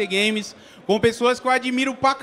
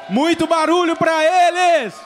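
hype call; 5 semitones higher, 4 dB louder than usual. Real, not acted. Hyping crowd.

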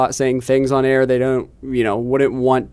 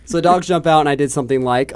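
normal talking voice

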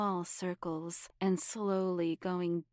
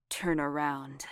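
low, rough growl; 4 semitones lower than usual. Acted. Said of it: "sounded more like a growl".

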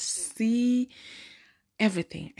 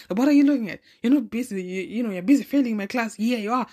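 sassy retort; 4 semitones higher, 5 dB louder, faster than usual. Pretend. Telling off staring classmates.

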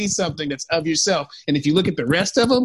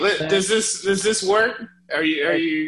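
sounding across the room; far from mic. Real, not acted. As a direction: voice distant from mic. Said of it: "you sound like far away".

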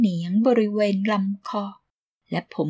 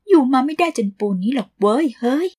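tough retort; 5 semitones higher, 4 dB louder than usual. Acted.

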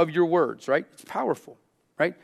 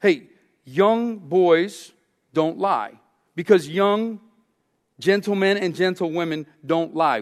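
prim etiquette lecture; 2 semitones higher than usual. Retold or imitated. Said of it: "like this".

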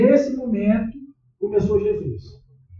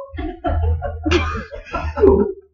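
laugh; 11 semitones higher, 4 dB louder than usual. Real, not acted. Laugh after mock God line.

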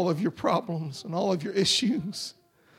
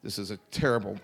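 lightly mocking a prosperity preacher asking for money; mock slick preacher; 4 semitones lower than usual. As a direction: sell it with fake concern. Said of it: "he didn't say".

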